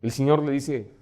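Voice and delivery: ordinary delivery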